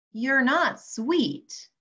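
you're not sweet dragged out slowly, not stressed; slow put-down. Acted. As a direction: lean hard on the word not, slowly. Insulting the tomato.

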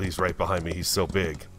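normal talking voice

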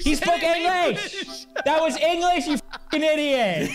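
high, laughing mock outrage; cracking up while scolding; laughing disbelief. Real, not acted. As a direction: laugh it out at the idiot.

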